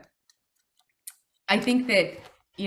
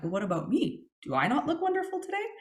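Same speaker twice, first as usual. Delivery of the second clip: mock jealous whine; 4 semitones higher, faster than usual. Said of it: "And I'm like".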